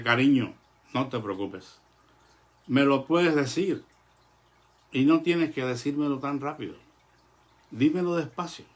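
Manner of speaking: gentle father. Retold or imitated. Father voiced reassuring daughter.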